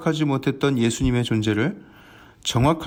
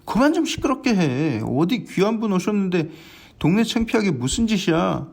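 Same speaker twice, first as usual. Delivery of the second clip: raised-pitch scolding of the beggar; scolding crowd; 4 semitones higher than usual. Acted. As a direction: hush him up, irritated. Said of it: "사람들이 그를 꾸짖습니다". (시끄럽다고 맹인을 꾸짖는 높은 목소리)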